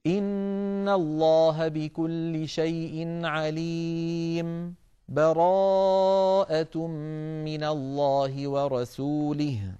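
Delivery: slow chant with a short breathless break after عليم before براءة; brief pause without breath. Shown as a demonstration. Teacher demonstrating the silent pause between two surahs, slow chant. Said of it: "هكذا".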